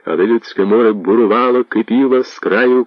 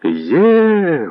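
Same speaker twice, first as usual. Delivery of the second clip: crowd shout; 9 semitones higher than usual. Acted. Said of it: "гуртом крикнули новгородці".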